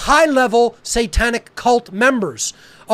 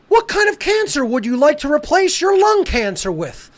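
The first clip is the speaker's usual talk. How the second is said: higher-pitched mock-innocent question; mocking absurd questioner; 4 semitones higher than usual. Host mimics someone questioning a cancer patient, mockingly silly. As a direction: lightly imitate someone asking something insane. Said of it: "This is what you sound like".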